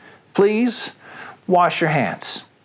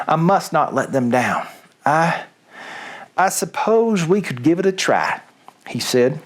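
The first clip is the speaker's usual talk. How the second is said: put-on story read aloud in a light Southern accent. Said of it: "Reading Things with a Southern Accent".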